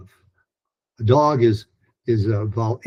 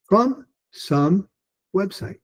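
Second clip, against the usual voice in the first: from some website lifted higher; high pitched delivery; 8 semitones higher, slower than usual. Shown as a demonstration. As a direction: rise up on from and stay high. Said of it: "Do it again".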